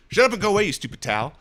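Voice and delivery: mildly annoyed cartoon retort; South Park voice. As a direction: brush off the cartoon character. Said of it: "Do the South Park voice".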